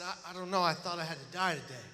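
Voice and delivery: quiet, low and halting; subdued confession. Retold or imitated. Young survivor answers his rescuers, retold quiet confession. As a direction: admit it softly, low in the voice.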